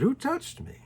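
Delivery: a sudden high "who touched me" asked of the crowd; searching question. Acted. Jesus turns to the crowd.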